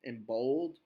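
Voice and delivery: big, long, bold words, unhurried; slow and drawn out. Shown as a demonstration. Teacher coaching a student to slow down, slow and bold. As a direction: stretch each word out long and bold. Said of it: "make you slow down your speech".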